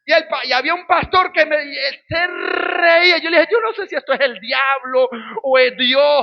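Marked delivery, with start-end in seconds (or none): 3.5-6.2 half-crying, exasperated outburst; mock desperate plea. Calling a pastor to be taken out of the house, a mock tearful plea. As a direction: beg to be rescued, hammed-up. Pleading call to another pastor.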